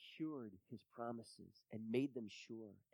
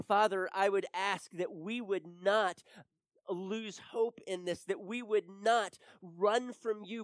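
prayer building from measured to loud, high pleading; fervent prayer; 6 semitones higher, 9 dB louder than usual. Real, not acted. Preacher praying to the Father for the congregation, fervent prayer. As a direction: plead with God, rising in intensity.

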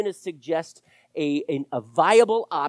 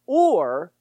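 dramatic whisper; 5 dB louder than usual. Real, not acted. Preacher's dramatic turn.

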